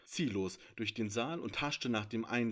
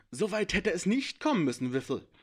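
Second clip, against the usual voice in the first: hissed; 8 semitones higher, 8 dB louder than usual. A narrator's reading. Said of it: "fauchte Fang".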